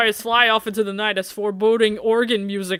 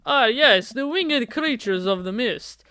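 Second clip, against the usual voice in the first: a hint of theatrical dark poet, slow in places; lightly grandiose brooding goth; slower than usual. Nervous boy posing as vampire to his date, lightly theatrical. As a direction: play at being a creature of the night.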